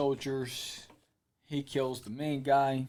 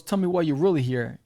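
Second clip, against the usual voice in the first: demanding interrogation; 2 semitones higher, 6 dB louder than usual. Retold or imitated. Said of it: "He goes".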